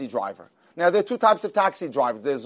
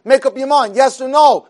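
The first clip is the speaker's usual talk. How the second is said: exasperated manager; 6 semitones higher, 6 dB louder than usual. Retold or imitated. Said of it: "So the manager's going crazy".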